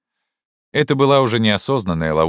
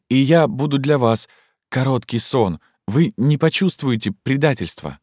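much higher and louder, rushing, ecstatic; impassioned plea; 10 semitones higher, 4 dB louder than usual. Acted. Zhenya begs Fyodor Ivanovich, feverish and high. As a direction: pour it all out in a feverish rush.

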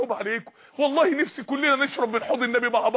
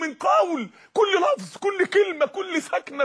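rising shout; 7 semitones higher, slower than usual. Real, not acted. Preacher stresses every word recorded.

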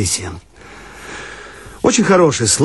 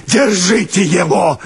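shout; 5 semitones higher, slower than usual. Acted. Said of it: "кричит он".

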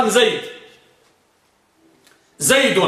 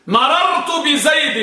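higher, slow and deliberate; slow, raised example sentence; slow demonstrated example; 8 semitones higher, slower than usual. Shown as a demonstration. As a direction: spell out the example so the vowel is heard. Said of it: "teacher demonstrates example".

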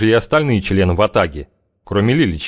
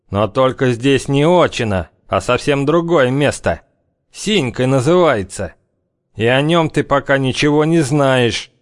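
зловещий бывалый главарь; 6 semitones higher than usual. A narrator's reading. Главарь предостерегает зяблика.

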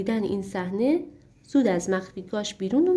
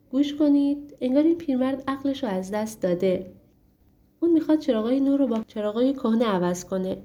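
a lightly voiced princess, higher; a young princess, pitched up, amused at the old man; princess's voice; 4 semitones higher than usual. Princess calls her servants. (صدای شاهزاده خانم، کمی زیرتر)

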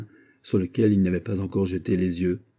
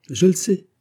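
laughing; 12 semitones higher, 6 dB louder than usual. Acted. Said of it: "dit Fouquet en riant".

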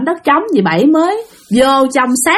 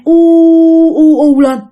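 imitated ear ringing; 6 semitones higher, 5 dB louder than usual. Child describes ears ringing at the market, imitated drone.

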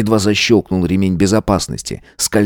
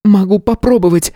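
witch's offer; 13 semitones higher than usual. A narrator's reading. Tanya resolutely offers to help.

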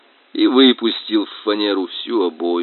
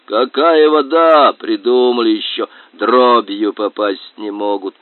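grumbling boar voice; 4 dB louder than usual. Acted. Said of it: "хрюкал кабан".

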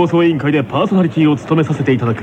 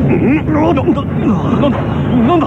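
startled panic; 10 semitones higher than usual. Acted. Host startled by a sudden quake, high and stammering. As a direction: caught off guard, stumbling over the words. Earthquake hits the studio.

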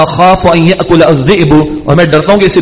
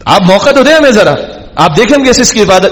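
higher, coaxing mock sweetness; smooth persuading tone; 4 semitones higher than usual. Brothers coaxing their father to give them a chance, sugary. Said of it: "لچھے دار انداز سے مائل کرنے کی کوشش".

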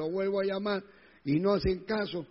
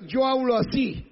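higher, mildly raised mock excuse; imitated loud talker; 5 semitones higher, 3 dB louder than usual. Preacher mimics a believer excusing shouting, raised mock protest. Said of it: "deja la gritería".

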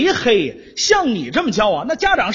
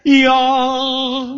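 哟 held long and a bit louder. Shown as a demonstration. Pupil repeats 哟 after the tutor asks for volume, louder. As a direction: project a long, steady 哟. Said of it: "声音再大一点".

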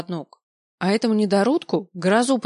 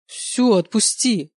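slow, louder tearful plea; pleading through tears; 4 dB louder, slower than usual. A narrator's reading. Tearful plea to the father holding her back. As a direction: beg him to let go, crying. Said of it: "прошу его сквозь слёзы".

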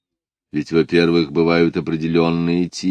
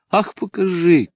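a high, bright call from where she lies; 13 semitones higher, 4 dB louder than usual. A narrator's reading. Lida begs to see the sketch, calling out. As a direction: call out eagerly without moving. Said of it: "крикнула Лида".

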